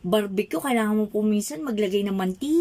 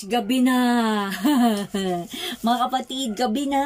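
amused exclamation. Real, not acted. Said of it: "preacher exclaiming to congregation".

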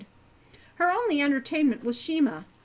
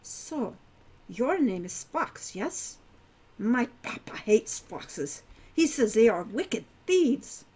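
put-on centaur girl voice; slower than usual. Hilda teases Wren about foxes.

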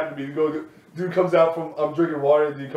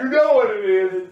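louder, hammed-up theorist's reveal; mock conspiracy revelation; 5 semitones higher, 6 dB louder than usual. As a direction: unveil the secret with laughing intensity.

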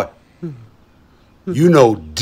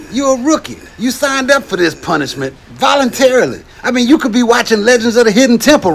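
drill sergeant; 8 semitones higher, faster than usual. Acted. Drill sergeant berating recruit.

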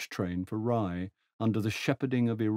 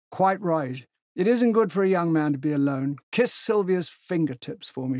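put-on higher, hearty voice of an old general; 6 semitones higher, 3 dB louder than usual. Old General hails Tegens across the platform, hearty and high. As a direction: boom out a jovial old soldier's greeting. General chats, a little anxiously.

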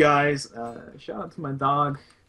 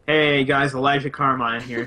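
YouTuber intro voice; 6 dB louder than usual. Pretend. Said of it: "I'm a new, uh, Carmine brother".

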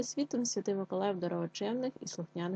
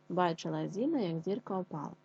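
tongue twister repeat. Shown as a demonstration. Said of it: "скоромовочку".

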